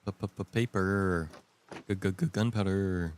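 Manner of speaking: slow, stammering announcer voice; dramatic stutter. Pretend. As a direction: drag it out with a stutter.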